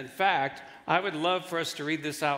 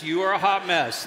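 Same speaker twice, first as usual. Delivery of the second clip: 1 louder quick example; 6 dB louder than usual. Shown as a demonstration. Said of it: "don't get into detail. Just".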